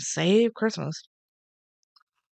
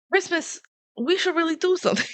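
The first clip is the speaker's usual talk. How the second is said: lines pitched way up, a silly squeaky delivery; high-pitched mock quote; 10 semitones higher than usual. Retelling the movie to a friend, squeaky high-pitched mock quote. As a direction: parody the line high and squeaky. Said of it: "That's not the inflection he had".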